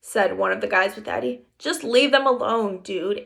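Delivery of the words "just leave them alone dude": calm. Acted. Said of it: "Amos repeated calmly".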